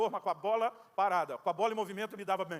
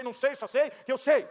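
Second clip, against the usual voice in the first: slow, higher and louder, every sei hammered; answering his friend's question with stubborn repetition, slow and loud; stubborn insistence; 5 semitones higher, 7 dB louder, slower than usual. Retold or imitated.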